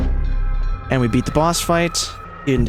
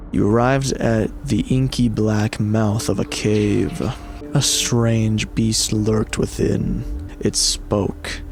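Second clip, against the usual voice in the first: story narration; 2 semitones lower, slower than usual. A narrator's reading. Reads game narration.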